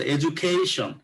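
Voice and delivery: এডুকেশন with the কে syllable stressed. Shown as a demonstration. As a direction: lean on কে in এডুকেশন. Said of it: "তাহলে কোথায় স্ট্রেসটা দিলাম".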